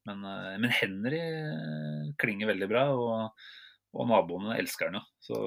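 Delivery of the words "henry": "Henry" with a sounded H, "HEN-ree"; Norwegian pronunciation. Shown as a demonstration. Owner defends the dog's name, Norwegian pronunciation. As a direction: say "Henry" the plain Norwegian way, H voiced. Contrasts own pronunciation with French.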